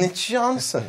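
"Nick Johnson" run into "Nitch-Johnson", as the synthesizer has it; mimicking computer pronunciation. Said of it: "men det är alltså". ("Nick Johnson" härmat efter talsyntesen, som "Nitch")

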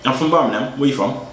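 a faint fake British accent; put-on British accent. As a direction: claim Birmingham in a thin British accent. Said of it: "That's not Birmingham accent".

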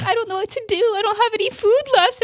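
high-pitched mock helplessness; helpless whimpering player. Barricaded player with no food left, mock helpless plea. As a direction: plead like a stranded victim, hammed up.

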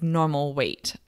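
normal weight said slowly, with normal leaned on as if in quote marks; slow down and set normal weight apart, mock-formal; air quotes. Real, not acted. Podcaster marks her ideal weight in air quotes, slow and stressed. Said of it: "I'm doing air quotes right now".

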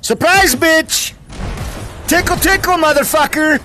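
gleeful taunting shout; giggly tickle attack. Acted. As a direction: pounce with a cheeky yell. Ambush taunt while playing.

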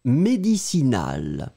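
Médicinal said slowly, mé-di-ci-NAL; slow dictation for writing; dictée voice; dictation word. Shown as a demonstration. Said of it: "Écrivez-le".

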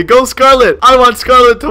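now really backing her, with energy; committed cheer. Shown as a demonstration. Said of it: "I'm gonna say".

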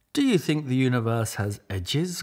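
quick curious duck question; quacking duck. Acted. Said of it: "quacked Marianne".

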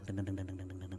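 very soft, low repeated "deng"; small, low creeping noise; imitated crawling. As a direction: patter it out quietly under the breath. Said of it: "ada gayang".

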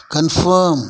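கன்ஃபார்ம் as kun-FURM without the R; silent R. Shown as a demonstration. Teacher models confirm for learners, silent R in கன்ஃபார்ம். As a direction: drop the R, "fuh-m" ending in கன்ஃபார்ம். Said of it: "ஆருக்கு உச்சரிப்பு கிடையாது".

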